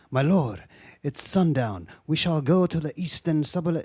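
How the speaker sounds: mock formal epic-film delivery, lightly done; period-movie put-on. Mocking how actors talk in these movies, light stagey put-on. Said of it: "everyone puts on, like".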